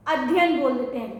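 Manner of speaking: अध्ययन said quickly, dropping the middle या; अध्ययन rushed with the या swallowed; wrong hurried form. Shown as a demonstration. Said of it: "जब हम अध्ययन बोलते हैं".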